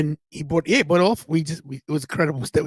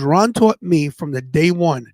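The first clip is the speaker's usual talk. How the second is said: slow, with long pauses between phrases; deliberate, measured retelling with weighty gaps; retold solemn lesson; slower than usual. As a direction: pass on a mentor's creed, phrase by phrase. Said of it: "He goes".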